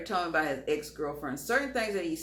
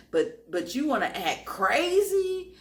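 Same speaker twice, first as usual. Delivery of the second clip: mild mock yell; 5 semitones higher than usual. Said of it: "I was screaming at him".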